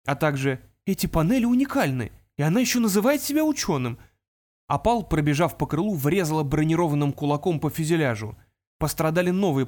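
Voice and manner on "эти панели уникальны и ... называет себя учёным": put-on raised, indignant young voice. A narrator's reading. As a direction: scoff at her claim. Artemis thought.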